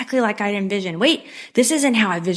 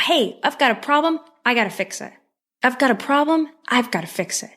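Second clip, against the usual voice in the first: mock problem-solving panic; 4 semitones higher than usual. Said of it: "what we've been trained to think".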